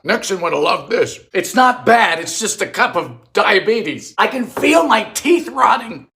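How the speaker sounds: ordinary talk, nothing marked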